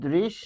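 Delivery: দৃশ said as drish, a clipped ending with no vowel; pronunciation demo. Shown as a demonstration. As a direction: stop right on the শ of দৃশ. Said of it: "যেহেতু থামছি". (দৃশ হসন্ত দিয়ে থেমে উচ্চারণ)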